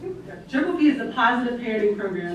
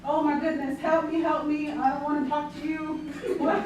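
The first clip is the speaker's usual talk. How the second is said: put-on toddler meltdown; 4 semitones higher than usual. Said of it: "Miss Lucretia".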